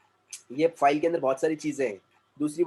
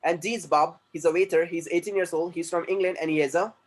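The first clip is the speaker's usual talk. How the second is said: reading sample sentences slowly and clearly; slow textbook reading; 2 semitones higher, much slower than usual. Shown as a demonstration. Teacher reading textbook lines slowly to class. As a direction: model each sentence slowly for students.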